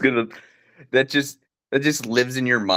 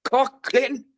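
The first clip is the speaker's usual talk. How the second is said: grandpa yell; 10 semitones higher than usual. Retold or imitated. Grandpa yelling bit.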